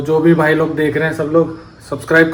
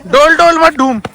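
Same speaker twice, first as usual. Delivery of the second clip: put-on baby talk; 10 semitones higher, 4 dB louder than usual. Teasing a small child.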